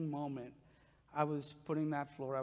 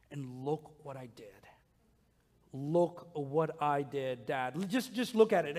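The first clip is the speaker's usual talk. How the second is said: eager little son. Retold or imitated. Son showing dad his coffee filter art, eagerly excited. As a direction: play the boy who can't wait to show his dad.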